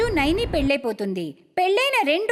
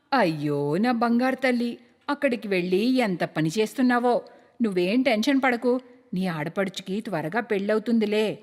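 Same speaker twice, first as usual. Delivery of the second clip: comforting mother; 6 semitones lower than usual. Acted. Mother comforts daughter on phone.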